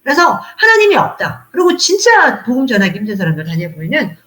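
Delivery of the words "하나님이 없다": high, scoffing "하나님이 없다"; mock the unbeliever's claim; scoffing denial. Repeats the atheist's claim.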